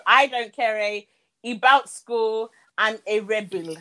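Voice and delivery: lightly imitated Zimbabwean accent; attempted Zimbabwean accent. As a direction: read it out in a tentative Zimbabwean accent. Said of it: "The Zim accent is unfortunate".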